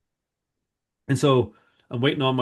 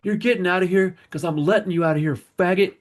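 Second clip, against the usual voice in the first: higher, imitating a domineering guard; prison guard; 6 semitones higher, 4 dB louder than usual. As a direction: lay down the law as the guard. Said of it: "He's like".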